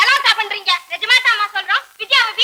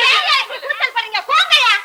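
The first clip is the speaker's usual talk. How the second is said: shouting orders; 4 semitones higher than usual. Acted. Quarrel in a crowd, ordering everyone.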